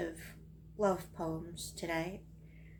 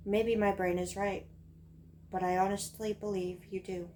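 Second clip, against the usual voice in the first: measured confessional verse with pauses; poem reading. Acted. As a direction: recite it line by line to the one addressed. Reads own poem aloud.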